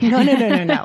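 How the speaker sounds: a firm no no no; mock scolding. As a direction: shut the idea down. First take of the scolding.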